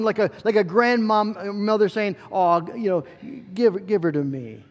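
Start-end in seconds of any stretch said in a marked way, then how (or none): 2.3-4.6 a hint of a tender grandmother, lightly voiced; mild, kindly grandmother coaxing; gentle soft tone. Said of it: "in a gentle, soft tone".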